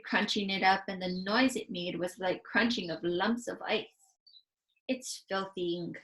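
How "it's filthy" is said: slow, sputtered through a mouthful; sputtering, mouth full. Acted. Giant spits snozcumber at Sophie while talking. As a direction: spit the words out round food. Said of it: "he sputtered, speaking with his mouth full".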